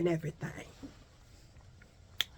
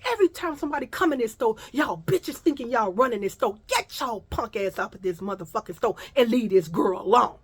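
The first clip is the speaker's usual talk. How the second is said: loud, fast scolding; commanding scold; 4 dB louder than usual. Retold or imitated. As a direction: throw them out of the store. Tall man throws girls out.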